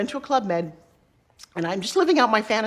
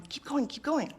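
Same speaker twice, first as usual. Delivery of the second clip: soft, high, urging voice; a small voice egging you on; little inner voice; 7 semitones higher, 8 dB quieter than usual. Retold or imitated. Imagined mentor in her head urging her on, small and soft. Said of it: "this little voice that just kept going".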